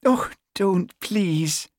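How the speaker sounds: high, giggly island lilt; laughing protest. A narrator's reading. Constable enjoying sergeant's joke, laughing protest. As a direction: beg off through amusement. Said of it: "she laughed".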